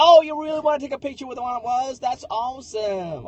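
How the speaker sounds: lightly mocked gullible delight; imagined delighted customer. Customer flattered by a photo request, mock delighted. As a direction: start high, then stretch out the ending slowly. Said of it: "they would've been like".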